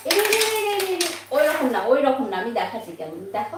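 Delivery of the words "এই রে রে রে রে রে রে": oh no exclamation. Real, not acted. Mother exclaiming at mess.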